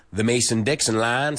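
lightly put-on Southern US accent. Shown as a demonstration. Teacher demonstrating speech below the Mason-Dixon line, Southern US accent. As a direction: say it with Southern US vowels. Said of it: "sounds a lot like this".

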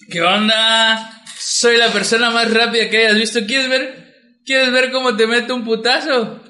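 lightly hammed-up retold bravado; mock drunken bragging. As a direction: show off like a tipsy superhero. Acts out his drunk boast to Mauri.

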